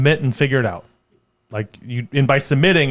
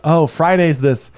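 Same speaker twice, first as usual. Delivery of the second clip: mock enthusiasm; 3 semitones higher, 4 dB louder than usual. Friends pretending they'll come out Friday, mock enthusiasm. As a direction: gush as if it's the best plan ever. Acting out everyone's keen replies.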